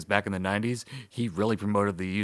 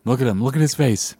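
excited; 5 semitones higher, 9 dB louder than usual. Real, not acted. Excited at nominee's face.

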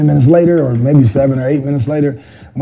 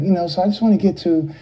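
light MJ voice; 4 dB quieter, faster than usual. Retold or imitated. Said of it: "making that voice that he wasn't making".

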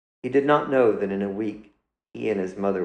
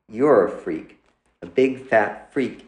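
louder, spitting out the insult; angry taunt; 2 semitones higher, 5 dB louder than usual. Acted. Son lashing out at his mother, loud and cruel. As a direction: hit her with the words, slowing on big fat freak.

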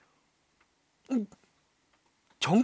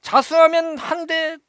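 stern teacher's announcement; 6 semitones higher than usual. Retold or imitated. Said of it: "선생님이 얘기해요".

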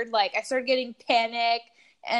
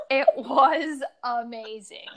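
slow and laughing; 2 semitones higher than usual. Real, not acted. Laughs, slow, far timbre.

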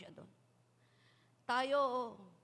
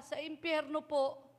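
put-on child; 4 semitones higher, 4 dB louder, slower than usual. Child answers policeman.

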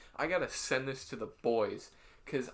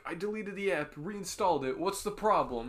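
raised, mildly exasperated reading; mock proper complaint; 5 semitones higher, 3 dB louder than usual. Co-host reads out a frustrated guy's tweet, with mock properness. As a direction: read it as an earnest, overly proper complainer. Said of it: "Wasn't he being mad proper".

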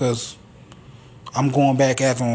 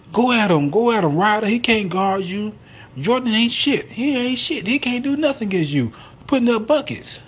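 egging on a teammate, hammed up; mock yell; 9 semitones higher than usual. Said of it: "he was yelling and shit".

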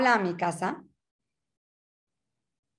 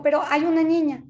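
retold nanny's reply; 7 semitones higher, 5 dB louder than usual. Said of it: "Le dijo".

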